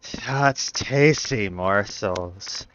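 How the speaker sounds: low, slow hungry growl; menacing monster voice. Acted. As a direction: savour the words like prey. GM voices hungry grove entity.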